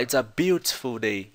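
"beautiful" with a clear t, British style; careful British take of "beautiful"; British accent. Shown as a demonstration. Teacher showing students the host's British pronunciation. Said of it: "Ele fala".

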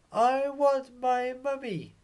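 very high, small voice wailing for mummy; whiny baby owl. Acted. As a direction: play a tiny owlet who misses his mum. Baby owl Bill cries for mum.

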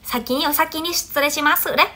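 light, soft murmur of the fast form; soft quick demo. Shown as a demonstration. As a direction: toss off the phrase softly. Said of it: "các bạn nói nhanh".

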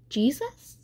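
high, tentative call for someone; questioning call. A narrator's reading. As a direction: call the name as a question, pitch rising. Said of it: "he said, he called".

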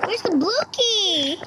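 tense whispered search. Real, not acted. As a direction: whisper it as if hiding.

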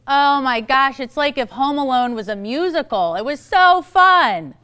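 high, loud and stretched out, slowing on so fun; a hammed-up thrilled fan; gushing movie review. Shown as a demonstration. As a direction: rave about the film like you loved every minute. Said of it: "Go ahead".

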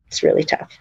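breathed out, almost without voice; whispered sadness. Real, not acted. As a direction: let the words fade into a whisper. Sad close to a hard story.

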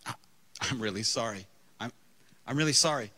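low, halting apology; acting out a contrite apology; humble apology. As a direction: apologize quietly, with hesitant pauses. Retold humble apology to the woman.

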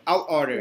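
"I'll order" with the L sounded; teacher models "I'll order"; L pronunciation demo. Shown as a demonstration. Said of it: "There is this L".

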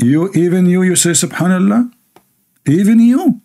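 incredulous, teasing question; jabbing at the commenter in disbelief; mock disbelief. Real, not acted.

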